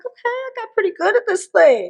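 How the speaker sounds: a hint of a London accent. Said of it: "It's my London accent".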